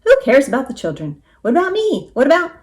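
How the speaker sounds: loud, high-pitched rooster protest; indignant outburst. A narrator's reading. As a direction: protest loudly, climbing in pitch.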